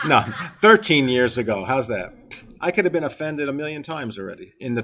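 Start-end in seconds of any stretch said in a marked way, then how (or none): 0.1-1.6 laughing through the correction; amused, laughing aside. Real, not acted. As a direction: chuckle out the correction. Laughs at his own exaggeration.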